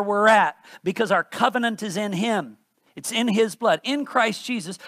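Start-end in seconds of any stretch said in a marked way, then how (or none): 3.8-4.8 "In" pressed, the rest lighter; weight the word "In"; stress on in. Shown as a demonstration. Preacher rereading the verse, stressing "In". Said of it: "I'm emphasizing the words I am".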